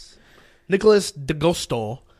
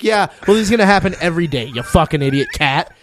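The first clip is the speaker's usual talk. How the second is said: mock shout; 2 semitones higher, 5 dB louder than usual. Mock insulting the cat.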